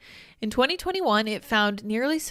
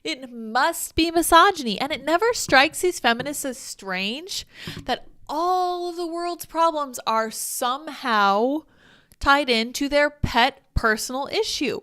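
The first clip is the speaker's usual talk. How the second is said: mocking; 4 semitones higher, 4 dB louder than usual. Real, not acted. Ranting, mocking the feminists' logic.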